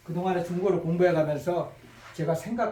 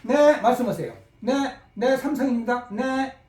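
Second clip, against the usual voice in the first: bright, polite phone greeting; answering the phone; 2 semitones higher than usual. Shown as a demonstration. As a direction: pick up the phone and greet the caller. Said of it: "전화를 받을 때".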